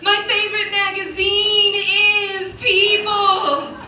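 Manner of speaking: slow, loud, high, drawn out; dramatic movie line. Pretend. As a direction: deliver it like a film climax. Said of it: "grab somebody ... and be like".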